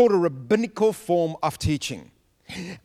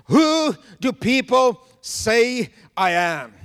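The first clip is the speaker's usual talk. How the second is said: a hint of Jesus asking; 5 semitones higher, 3 dB louder, slower than usual. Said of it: "and he says".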